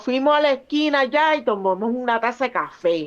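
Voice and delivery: quick Puerto Rican Spanish, casual. Shown as a demonstration. Puerto Rican speaker showing how her people say it, Puerto Rican Spanish. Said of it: "Nosotros decimos".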